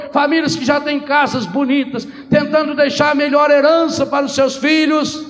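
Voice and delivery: a rebuke building in force; fervent preaching. Acted. Priest denouncing families chasing material goods, fervent preaching.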